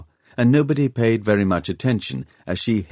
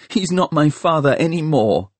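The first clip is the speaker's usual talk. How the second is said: bitter; 8 semitones higher, 3 dB louder than usual. A narrator's reading. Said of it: "said Catherine bitterly".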